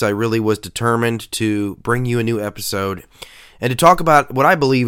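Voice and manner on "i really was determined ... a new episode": stuffy, nasal tone from a cold. Real, not acted. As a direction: talk through a blocked nose. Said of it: "even though I have a nasal voice".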